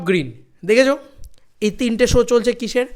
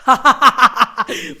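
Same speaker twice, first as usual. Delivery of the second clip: gleeful laugh; 4 semitones higher, 5 dB louder than usual. Real, not acted. Celebrating box office success.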